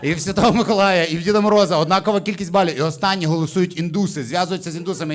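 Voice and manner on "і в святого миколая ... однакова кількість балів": excited shout. Real, not acted. Shouting the tied result.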